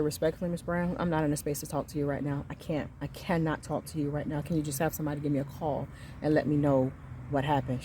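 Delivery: quiet, measured retold refusal; restrained refusal. Upset parent declining to talk to the principal, restrained. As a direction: keep it soft and controlled while politely refusing.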